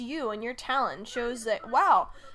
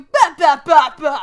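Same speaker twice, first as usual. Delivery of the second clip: loud high nonsense babble; loud babbling; 3 semitones higher, 18 dB louder than usual. Retold or imitated. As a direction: blurt it out at full volume.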